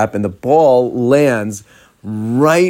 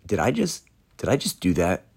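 hushed, halting self-questioning; stunned realization; 3 semitones lower, 6 dB quieter than usual. Retold or imitated. Fan who just grabbed the ball from her lap, stunned realization. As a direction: softly voice his dawning disbelief. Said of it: "wave of recognition flash across his face".

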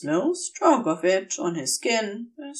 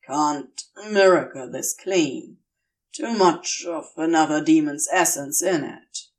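lower, dry demon voice; Crowley, lowered; 5 semitones lower than usual. Acted. Crowley, dry and clipped, cleaning Aziraphale's wounds.

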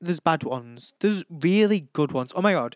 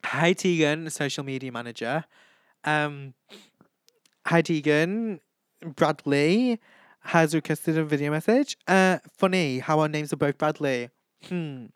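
sassy video-message delivery with pauses; sassy Bradley; 2 semitones higher than usual. Retold or imitated. Bradley recording a video message for a fan, imitated sassiness. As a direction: greet with attitude, then let it hang. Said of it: "he was quite sassy".

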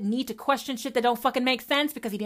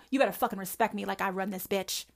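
softer, muttered self-righteous demand; quieter demand; 3 semitones lower, 5 dB quieter, faster than usual. Retold or imitated. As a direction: drop it down, still demanding. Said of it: "says the Christian".

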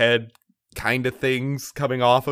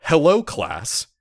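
automated voice message; 3 semitones higher than usual. Retold or imitated. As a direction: read it like a phone menu. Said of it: "sounds like an automated voice message system".

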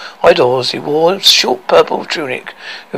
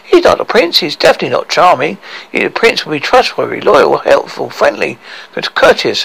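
tearful anger. Acted. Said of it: "said Lily White through tears of anger".

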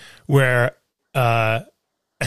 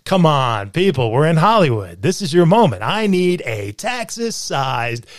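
mock pep-talk. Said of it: "And I go".

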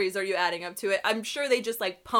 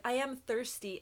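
softly imitated calm after yelling; suddenly done yelling; 3 semitones higher, 9 dB quieter than usual. Imitating the ad's character who stops yelling, softly matter-of-fact. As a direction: drop the volume, as if the yelling just stopped. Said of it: "where she stops yelling".

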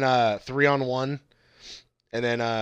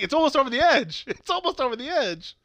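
1 flat mock actor; 11 semitones higher than usual. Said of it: "they kept just standing there like".

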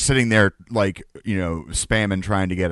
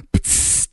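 door hiss sound. Retold or imitated. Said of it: "how they go".

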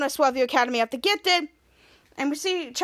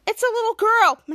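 surprised; 7 semitones higher, 6 dB louder than usual. Acted. Surprised at who is at the door.

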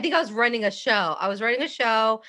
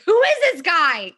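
retold yell; 6 semitones higher, 5 dB louder than usual. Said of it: "I remember yelling at you".

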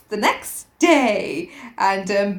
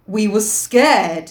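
mildly excited, drawn out slowly; a touch of excitement, stretching the words; excitedly; 4 dB louder, much slower than usual. Acted. Piggy excusing himself to Ralph, mildly excited. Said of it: "said Piggy excitedly".

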